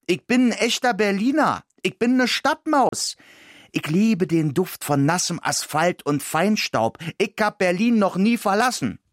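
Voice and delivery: high, squeaky, indignant protest; a city mouse bristling with outrage. Acted. The mouse angrily refusing the dog's village plan, high and squeaky. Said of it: "sagte ich aufgebracht".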